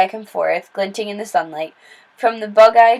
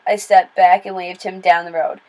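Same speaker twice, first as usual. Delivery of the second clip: ordinary delivery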